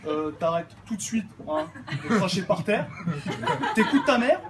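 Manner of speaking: a hint of the menacing older son; big brother scolding. Big brother Pascal threatening the little one, lightly imitated. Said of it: "Je vais vous le faire".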